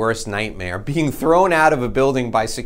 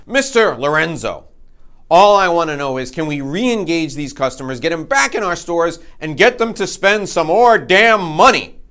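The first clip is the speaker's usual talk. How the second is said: higher, rising exasperation; mock frustrated boss building up; exasperated demand; 5 semitones higher than usual. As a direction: executive finally snapping at the salesman. Executive loses patience.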